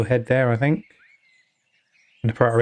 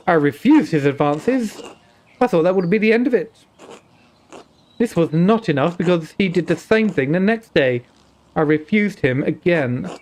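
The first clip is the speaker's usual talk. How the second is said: put-on Indian accent. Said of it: "an Indian accent".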